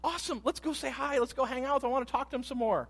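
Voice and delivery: put-on high, loud and eager, like kids greeting a friend; eager excitement. Preacher voicing Adam and Eve thrilled to see God. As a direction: gush with joy that he's here. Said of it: "they'd be like".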